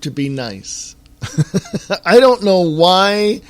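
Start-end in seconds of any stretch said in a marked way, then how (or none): 1.5-3.4 laughing through the words, pitched up; a disbelieving chuckle on the words; exasperated laugh. Real, not acted.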